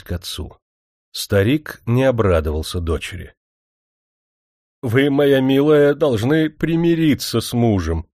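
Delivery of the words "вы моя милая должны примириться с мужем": put-on higher, slow, imploring old man; pleading old father. A narrator's reading. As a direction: beg her gently like a frail old man. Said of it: "умоляюще посмотрел".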